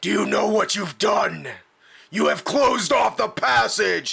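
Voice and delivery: gruff, big, burly brute orc monster voice. Narrating a scene to listeners, voicing an orc who yells: big burly orcish voice. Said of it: "in a big burly orcish voice".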